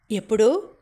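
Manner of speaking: sharp, loud one-word demand; ringing demand. A narrator's reading. Furious father jumps up and demands when, loud. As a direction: ring it out like struck bronze. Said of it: "కంచులా మోగింది ఆయన కంఠం".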